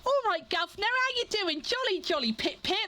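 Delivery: high-pitched, hammed-up British accent; stereotypical British accent. Mimicking how Americans write British characters, in a stereotypical British accent. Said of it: "when an American does a British accent".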